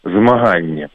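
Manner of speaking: «змаганне» with fricative g; Belarusian pronunciation. Shown as a demonstration. Linguist introduces a Belarusian word, «змаганне» with fricative g. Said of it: "В белорусском языке есть такое слово".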